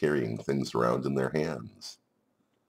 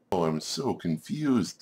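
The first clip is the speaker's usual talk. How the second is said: slow, higher-pitched bewildered creature; confused spider; 4 semitones higher than usual. Acted. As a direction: sigh it out slowly as a lost little spider. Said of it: "said the spider".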